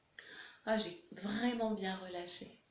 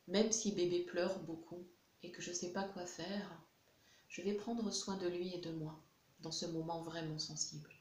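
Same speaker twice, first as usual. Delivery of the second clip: guided tapping affirmations. Acted. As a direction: gently reassure yourself while tapping. EFT tapping affirmations for parent.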